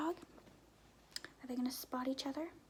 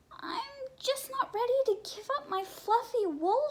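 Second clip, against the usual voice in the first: sad, higher voice of a reluctant sheep; sadly; 10 semitones higher, 4 dB louder than usual. A narrator's reading. Sheep tells sheepdog she won't give up her wool, high and sad. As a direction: plead gently, a little sad. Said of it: "Sheep said sadly".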